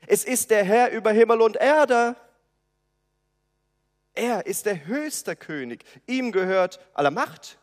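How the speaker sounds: loud shout to a deaf man. Acted. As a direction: shout it so he hears. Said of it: "man schreit es ihm".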